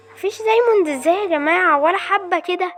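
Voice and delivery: high exasperated complaint; exasperated, incredulous gamer; frustrated disbelief. Real, not acted. Frustrated, finding no diamonds at all.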